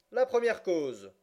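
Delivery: slow, loud, high call with falling end; judge resuming. A narrator's reading. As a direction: announce it slowly and firmly, pitch dropping at the close. Judge calls the case once more. (appel lent et sonore, ton descendant)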